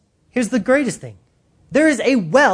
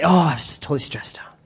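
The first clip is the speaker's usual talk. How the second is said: mock whiny excuse; 5 semitones lower, 4 dB quieter, faster than usual. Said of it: "people say".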